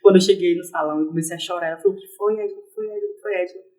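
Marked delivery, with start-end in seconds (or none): 2.0-3.7 repete baixinho, mais suave, preocupada; pergunta preocupada baixa. Retold or imitated. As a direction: insistindo com cuidado, em voz baixa. (colega perguntando à Edilane, suave e preocupada)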